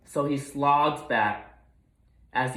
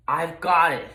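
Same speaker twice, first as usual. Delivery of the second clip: a touch of snorting pig, louder; 4 semitones higher, 5 dB louder than usual. Acted. Gruntley guesses the clue, mock snort. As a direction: blurt it out triumphantly. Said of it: "he snorted".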